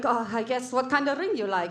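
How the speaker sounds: lightly imitated Polish accent; a touch of mock Polish accent. Comic voicing fiance asking about the ring, light Polish accent. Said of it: "his accent was so thick".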